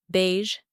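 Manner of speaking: "Beige" ending in a soft zh; soft French ending. Shown as a demonstration. Teacher giving another example, soft zh ending. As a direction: let "Beige" finish on a soft zh. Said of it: "the end of the word is more softer".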